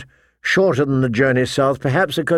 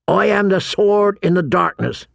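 higher, measured oath recitation; intoning; 6 semitones higher than usual. A narrator's reading. Halder joining the oath against John, intoning. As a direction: intone the vow evenly. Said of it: "Halder intoned".

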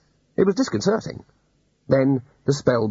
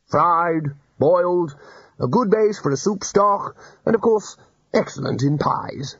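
happily; 6 semitones higher, slower than usual. Acted. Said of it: "said the Arch-Chancellor happily".

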